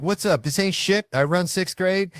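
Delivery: put-on high, loud tough-kid swagger; cocky kid attitude. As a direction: strut in like you own the place. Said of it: "they show up to this thing with attitude".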